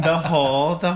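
laughing through the words; stumbling through a laugh. Real, not acted. Laughs while restarting sentence.

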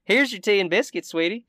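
high-pitched shopkeeper voice; sweet Southern hostess. Acted. Shopkeeper serving tea to guests, sweet and high. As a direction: play a doting hostess, pitched well up.

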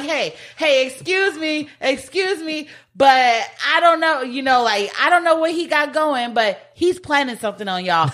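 a hint of the jittery snitch; nervous. She nervously warns the kidnappers, a hint of jitters. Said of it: "She gets all nervous".

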